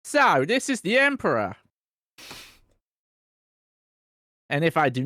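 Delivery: high, loud barbarian bellow. Acted. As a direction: boom it out like a warrior. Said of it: "you give me a barbarian voice".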